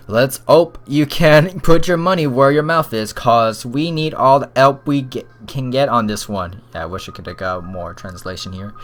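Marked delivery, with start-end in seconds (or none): 0.1-6.6 lightly done British inspector; attempted British accent. Inspector needs all the help, rough British accent. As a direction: have a half-hearted go at British. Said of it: "I can't do the freaking accent".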